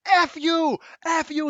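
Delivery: high, loud imitated screaming; retold cursing yell. Stranger cursing at the narrator in the street, high mock screaming. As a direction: spit it out like a raving stranger. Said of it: "He's, like, cursing at me".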